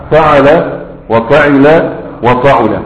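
فعل وفعل وفعل drawn out slowly, fatha then kasra then damma on the middle letter; slow vowel drill. Shown as a demonstration. Teacher drilling students on the three verb patterns, slow and careful. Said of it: "مرة العين مفتوحة، ومرة العين مكسورة".

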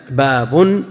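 باب with a sounded nunation, baa-bun; tanween on باب. Shown as a demonstration. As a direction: say باب as baabun, ending in "un". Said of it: "وكذا على تنوين باب".

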